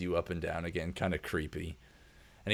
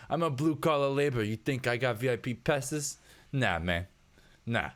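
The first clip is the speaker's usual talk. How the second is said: scoffing worker; 6 semitones higher than usual. Acted. GM voices husband scoffing.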